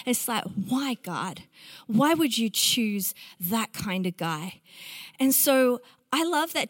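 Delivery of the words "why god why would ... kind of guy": low-pitched, mildly judgy questioning. Acted. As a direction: question the choice with quiet disapproval. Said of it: "kind of a judgy tone to it".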